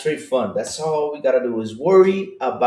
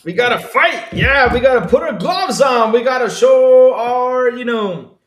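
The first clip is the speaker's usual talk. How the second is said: Macho Man Randy Savage; 11 semitones higher, 6 dB louder than usual. Retold or imitated. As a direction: growl it out like a pro wrestling promo. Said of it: "get in our macho man suits".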